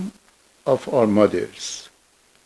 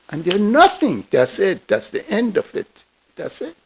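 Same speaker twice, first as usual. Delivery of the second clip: skeptical dismissal. Acted. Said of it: "another one who was very skeptical".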